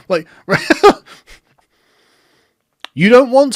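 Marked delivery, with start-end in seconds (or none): 0.5-1.0 quick high giggle breaking through; short laugh. Real, not acted. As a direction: laugh again despite trying to stay serious. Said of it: "I can't even say it with a straight face".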